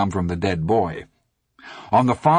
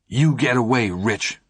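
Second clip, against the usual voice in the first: trembling voice; 2 semitones higher than usual. Acted. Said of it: "he said in a trembling voice".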